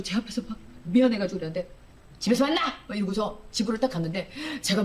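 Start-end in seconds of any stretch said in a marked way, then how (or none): 2.2-2.6 short, higher-pitched angry outburst; re-enacted curt flare of temper; retold angry snap. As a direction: snap it at someone who let you down. Angry snap at late manager.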